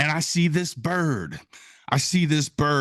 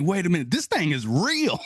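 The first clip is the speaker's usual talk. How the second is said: higher-pitched, astonished disbelief; amazed realization; 5 semitones higher than usual. Retold or imitated. Birder learning it nests in Wisconsin, amazed. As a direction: let the discovery amaze you. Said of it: "I was really kind of freaking out".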